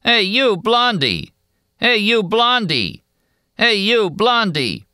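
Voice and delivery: repeated high jeering call; high, tired voice. A narrator's reading. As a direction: keep calling out, worn-out and mocking. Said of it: "he called over and over in a high, tired voice".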